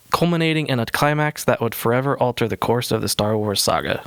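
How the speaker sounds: breathless, running out of air; gasping through the end of a long sentence; out of breath. Real, not acted. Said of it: "out of breath already".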